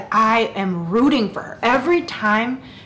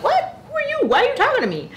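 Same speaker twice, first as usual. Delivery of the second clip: high-pitched, baffled squeal at a stranger; hammed-up "do I know you?" indignation; squeaky comic alarm, voice shooting way up; mock bewildered; much faster than usual. Acted startled reply to tavern stranger.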